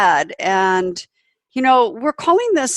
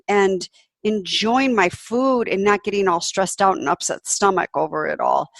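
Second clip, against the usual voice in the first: exasperated self-talk. Retold or imitated. Quoting her own inner scolding.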